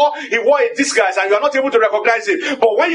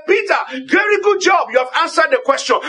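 hearty praise; 4 semitones higher than usual. Pretend. Imagined Jesus praising Peter.

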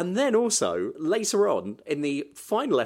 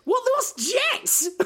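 puzzled surprise; slower than usual. Real, not acted. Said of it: "Every time they said it".

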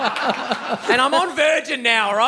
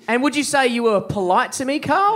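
mock accusation; 2 semitones higher than usual. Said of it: "mock accusing Carl".

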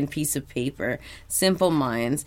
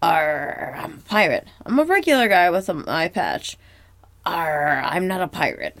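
SpongeBob impression; 2 semitones higher than usual. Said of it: "he's doing different impressions".

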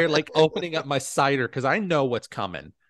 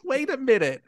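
imitating film guy; 11 semitones higher than usual. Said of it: "He's like".

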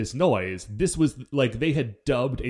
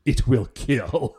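slow, sinister and deliberate; creepy voice; 3 semitones lower, much slower than usual. Retold or imitated. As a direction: say it slowly like a menacing villain. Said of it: "it's very disconcerting".

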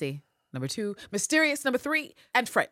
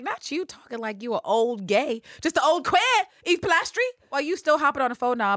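1 sassy drag; 9 semitones higher, 4 dB louder than usual. Retold or imitated. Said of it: "And it's like".

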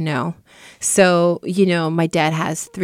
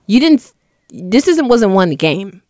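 incredulous; 4 dB louder than usual. Retold or imitated. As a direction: react like you can't believe it. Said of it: "And I'm like".

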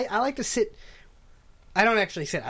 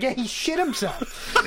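laughing; 5 semitones higher than usual. Real, not acted. Telling stranger, laughing.

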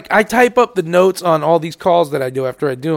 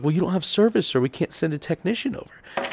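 flat mock agent; 3 semitones lower, 10 dB quieter than usual. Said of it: "They're like".

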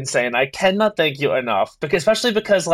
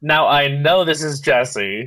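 sultry narrator; slower than usual. Real, not acted. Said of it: "that sultry voice is Matt Rogers".

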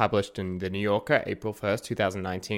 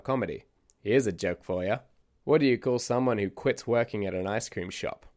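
eccentric storyteller character; 2 semitones higher than usual. Acted. Podcast host voices eccentric narrator.

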